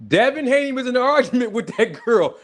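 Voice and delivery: can't hold back the giggle; laughing through it. Real, not acted. Streamer telling gossip to viewers, fighting off laughter. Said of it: "I'm trying not to laugh".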